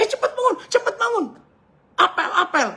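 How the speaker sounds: high-pitched hurried alarm; acted high, frantic calling; urgent wake-up call. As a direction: rouse a sleeper in a panic. Friend urgently waking a sleeper.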